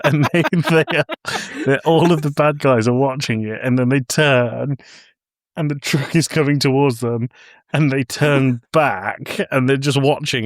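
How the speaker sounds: laughing while telling. Real, not acted. Laughing while retelling funny scene.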